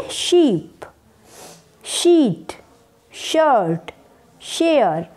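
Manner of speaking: शीप, शीट, शर्ट, शेयर, each starting with a clear श; sh-word drill. Shown as a demonstration. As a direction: model each sh word slowly, one by one. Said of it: "क्या बोलेंगे?". (हर शब्द श से साफ़ बोलिए)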